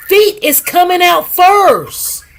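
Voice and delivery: dramatic retelling of sudden bad news; urgent retold announcement. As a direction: announce an emergency, stretching the first words. Retells doctor's alarming announcement.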